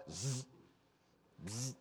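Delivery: quiet taser buzz; short soft electric "zzz"; zap gun noise. Retold or imitated. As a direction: imitate a zap gun going off. Mimics a zap gun firing.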